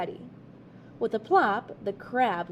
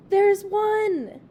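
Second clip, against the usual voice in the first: excited shout, higher and louder; calling out; 10 semitones higher, 9 dB louder than usual. A narrator's reading. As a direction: call out a find on the beach. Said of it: "called Harriet".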